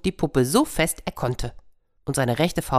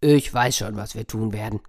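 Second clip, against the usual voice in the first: bear; 4 semitones lower than usual. Acted. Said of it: "sagte der Bär".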